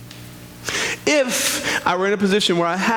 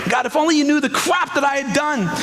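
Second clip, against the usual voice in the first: a shouted, higher cry of frustration; exasperated shout; 9 semitones higher than usual. Pretend. Imitating someone shouting their excuses at God.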